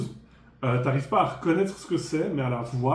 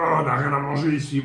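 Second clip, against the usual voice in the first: grumbling monster voice; 6 dB louder than usual. Acted. GM voices complaining goblin.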